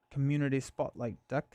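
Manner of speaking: put-on a light British accent; a passing hint of British accent. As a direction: say it like a Brit, lightly. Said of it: "I just did a British accent there".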